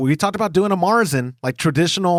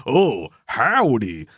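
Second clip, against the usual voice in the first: slow, drawn-out mocking "Oh, howdy"; mock reaction to howdy; 2 semitones lower, much slower than usual. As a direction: draw out "Oh, howdy" like hearing something hokey. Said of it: "They're like".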